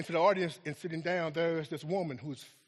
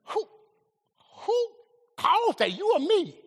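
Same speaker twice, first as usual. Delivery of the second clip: voice of God; 8 semitones higher, 5 dB louder than usual. Retold or imitated. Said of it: "and God says".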